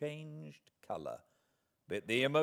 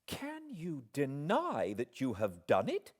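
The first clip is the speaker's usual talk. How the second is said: sharp challenge; 6 semitones higher than usual. Acted. Heroine pressing her accusation.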